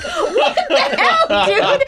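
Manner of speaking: high, slow incredulous cry; mock shock. Audience member reacting in mock shock. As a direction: gape at it in disbelief. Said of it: "You're like".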